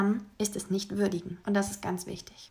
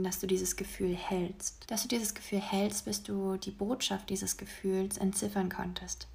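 guided meditation. Acted. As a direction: guide them gently into their feelings. Leads a breathing exercise.

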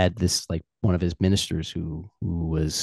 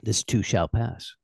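quoted saying; 3 semitones higher, slower than usual. Shown as a demonstration. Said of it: "that saying".

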